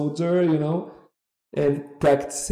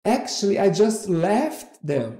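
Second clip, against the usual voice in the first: higher-pitched, mock-haughty reply; dismissive attitude; 5 semitones higher than usual. Would-be model dismissing the agent's agency, with attitude. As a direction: imitate a girl unimpressed by the agency name. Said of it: "She had a bit of an attitude".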